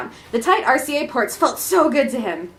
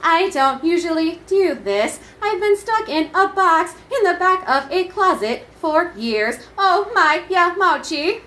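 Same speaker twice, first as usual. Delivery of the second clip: mock bashful excitement; 6 semitones higher than usual. Shy old console getting excited.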